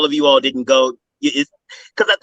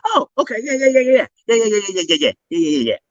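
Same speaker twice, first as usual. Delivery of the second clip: dismissive brush-off; 5 semitones higher, faster than usual. Retold or imitated. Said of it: "Then she'll say, like".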